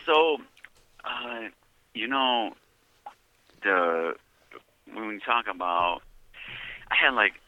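over a phone line; phone call audio; on a prison phone. Real, not acted. This is a prepaid debit call from.

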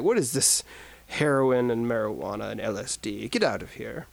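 put-on lightly done Liverpool accent; a hint of a Liverpool Beatle. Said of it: "that's my Liverpool accent".

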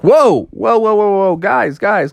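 high, repeated startled calls; alarmed Froggy. Acted. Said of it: "Froggy was like".

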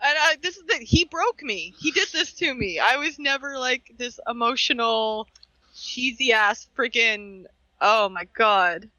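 high, tearful voice breaking through the words; crying. Real, not acted. Host crying while thanking her partner, tearful and high. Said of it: "now I am crying".

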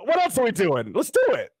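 high, bursting with eagerness; eager excitement. Retold or imitated. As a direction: pitch it up like the idea is irresistible. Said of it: "I go".

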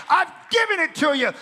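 loud, high preaching shout; proclaimed shout. Acted. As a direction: thunder the promise. God's promise proclaimed loudly.

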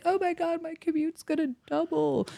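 high-pitched fretting; mock dismay. Newcomer fretting over a longer commute, mock dismay. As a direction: fret in a high, exaggerated voice. Acting out worry about commute.

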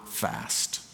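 a breathed-out whisper. Real, not acted. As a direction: drop to a whisper. Last word breathed out.

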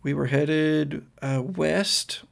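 lightly voiced, hesitant girl; confused girl. Girl recalls riding in his truck, hesitant. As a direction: search haltingly for the memory. Game master plays confused Cassie.

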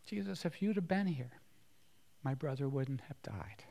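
soft, fading to a whisper; weeping Mary. Acted. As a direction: say it through tears at his feet. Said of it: "she says the same thing".

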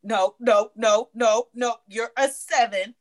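lightly imitated blunt coach, insistent repeated no; Kevin Samuels. Guest mimics coach rating callers, mildly dismissive and insistent. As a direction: cut them off like a dismissive adviser. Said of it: "That's how he be talking".

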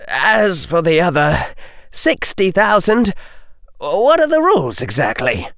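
a hint of a sharp, businesslike boy; boy pressing for terms; young Harry. Harry's voice in dialogue.

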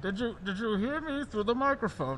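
muffled behind a mask; through a face mask. Real, not acted. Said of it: "very hard to speak through this mask".

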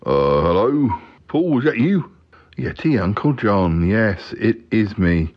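slow, drawn-out uncle voice; Yeti Uncle John. Pretend. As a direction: take your time like a big old yeti. Yeti Uncle John takes the phone.

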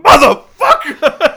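loud, slow frustrated curse; angry outburst. Retold or imitated. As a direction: roar it out in frustration. Frustrated outburst at torn bag.

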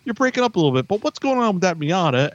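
high, fast dodging voice; mock phone dodge, quick and high; imitating evasive friend. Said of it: "I ask him".

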